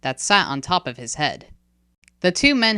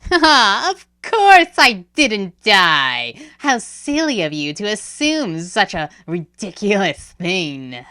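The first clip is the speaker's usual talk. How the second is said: high, slow amused chuckle through words; chuckling; 5 semitones higher, 6 dB louder, slower than usual. Acted. Kaokat mocking Jabali, chuckling. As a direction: laugh off his question. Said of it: "Kaokat chuckled".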